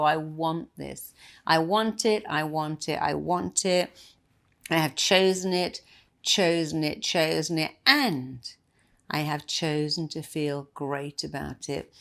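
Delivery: firm self-talk, hitting chosen each time; emphatic affirmation. Shown as a demonstration. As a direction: chant I want it, punching chosen. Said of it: "this is what you do".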